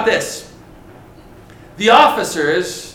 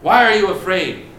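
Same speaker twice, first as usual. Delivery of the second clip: challenging; 3 semitones higher, 5 dB louder than usual. Acted. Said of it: "He challenges them".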